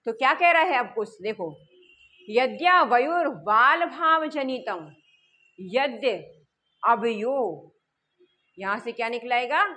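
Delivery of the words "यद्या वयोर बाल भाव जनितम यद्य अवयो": slow recitation. Shown as a demonstration. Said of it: "teacher reciting Sanskrit verse slowly".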